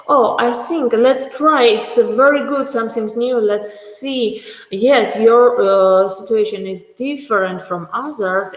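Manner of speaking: lightly upbeat and reassuring; encouraging doctor. Shown as a demonstration. Doctor reassuring patient about a new treatment, lightly upbeat. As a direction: gently cheer the patient on. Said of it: "How I have to say?".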